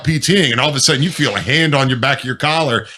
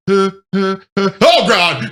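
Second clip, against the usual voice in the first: frightened huffs into a high cry; mock panic; 6 semitones higher than usual. Recruit waiting to get snatched up, mock panic. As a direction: act out a recruit's panicky breaths, pitch raised.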